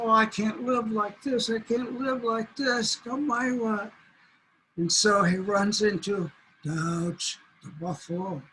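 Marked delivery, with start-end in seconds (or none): 0.0-3.9 higher, complaining whine; fretting coyote. Acted. Coyote frets about mouse eyes, higher and whiny. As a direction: grumble about being tiny. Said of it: "he said".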